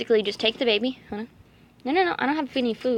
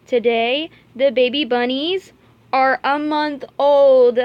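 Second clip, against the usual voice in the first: louder, slow and drawn out; excited announcement; 3 semitones higher, 8 dB louder, slower than usual. Real, not acted. Announcing to viewers the bunnies turned a month old, excited. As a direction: build it up like big news.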